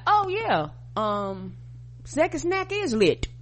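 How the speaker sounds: high, drawn-out gushing voice; mock-excited event planner; mock planner hype.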